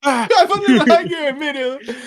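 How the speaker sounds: high-pitched, talking through laughter; words squeezed out on a laugh. Real, not acted. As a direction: crack up while trying to get the words out. Laughing through his own story.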